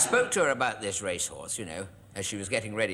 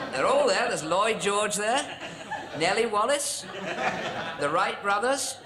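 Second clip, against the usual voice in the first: mock excited; 9 semitones higher, 4 dB louder, slower than usual. Real, not acted. Pointing out photo figures.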